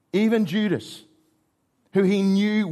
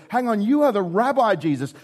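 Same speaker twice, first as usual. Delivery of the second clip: shocked disciples; 5 semitones higher than usual. Retold or imitated. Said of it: "offensive to the disciples' mindset".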